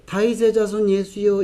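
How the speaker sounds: softly, without any urgency; meek call. Shown as a demonstration. Preacher showing how the beggar would not call, meek call. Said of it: "이랬겠습니까?".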